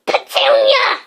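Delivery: loud breathless gasp of a name. A narrator's reading. Uncle Vernon gasps for his wife in shock. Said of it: "he gasped".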